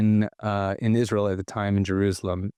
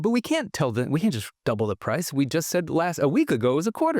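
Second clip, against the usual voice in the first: mock kid protest, higher and rushed at the end; 6 semitones higher than usual. Kids protesting to dad about raising the price. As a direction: plead that it isn't fair. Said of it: "And we said".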